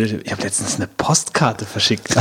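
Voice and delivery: mock disgusted, slow and soft; slightly disgusted. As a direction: imitate it with a faint note of disgust. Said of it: "so ein leicht angeekelter, äh, äh, Unterton".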